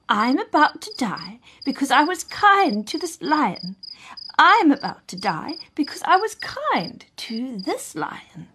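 high-pitched, lightly voiced lament; mournful recitation. A narrator's reading. Monkey's words before dying, high recitation. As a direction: recite it high, as a sad declaration.

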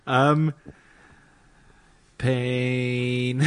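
pained laugh, then a strained word; laughing through pain. Real, not acted. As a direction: laugh while hurting. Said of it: "it hurts to laugh".

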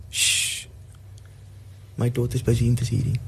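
shh whispered, then hurried words; a hint of a hushing voice. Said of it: "God literally tells the angels".

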